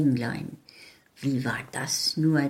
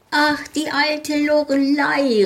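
high, louder joyful call; much higher happy exclaim; cheerful cry; 11 semitones higher, 5 dB louder than usual. Acted. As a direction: call out delighted like tiny folk. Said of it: "riefen sie fröhlich".

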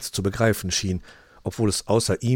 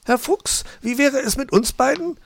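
much higher coy magpie voice; Frau Elster flirting; 5 dB louder than usual. Acted. Frau Elster asking Mr Fox about the two of them, high and coy. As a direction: purr the question at him.

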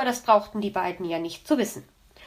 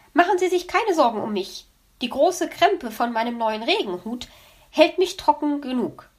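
lightly voiced proud magpie; 4 semitones higher, 3 dB louder than usual. Elster boasts of rain hat.

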